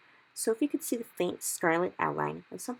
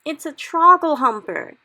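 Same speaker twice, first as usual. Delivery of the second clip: much higher, slow furious shout; 11 semitones higher, 16 dB louder, slower than usual. Acted. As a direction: roar it out in fury and anguish. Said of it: "he shouted".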